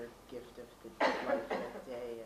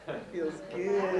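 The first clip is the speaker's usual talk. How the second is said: laughing; 6 semitones higher, 7 dB louder than usual. Real, not acted. Participant laughing in exercise.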